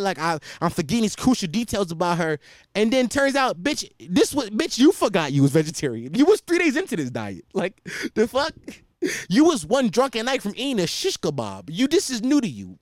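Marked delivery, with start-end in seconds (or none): 3.6-12.8 exasperated, comically outraged accusation; mock indignant rant. Boyfriend replaying his argument with his girlfriend, mock indignant. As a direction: throw it back at the girlfriend, incredulous.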